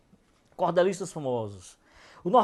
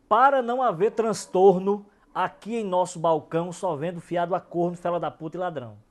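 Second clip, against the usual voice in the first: declaims the rhyming quatrain, starting louder; verse recital; 3 dB louder than usual. Acted. Poet recites a comic shop quatrain, declaiming.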